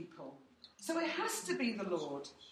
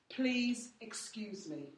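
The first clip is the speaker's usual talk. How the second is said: slow humble apology; 3 dB quieter, much slower than usual. Shown as a demonstration. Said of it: "That's what I say".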